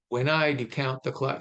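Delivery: "When I do count the clock" with beats on I, count, clock; regular iambic stress. Shown as a demonstration. Lecturer shows regular meter, iambic stress on "When I do count the clock". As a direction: tick through "When I do count the clock" in light-heavy pairs. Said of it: "five very regular iambic".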